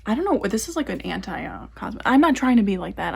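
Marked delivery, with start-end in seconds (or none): 2.0-3.1 louder, punching not; emphatic. Real, not acted. Vlogger defending herself to cosmetologists, loud insistence. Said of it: "I'm not trying to be like that at all".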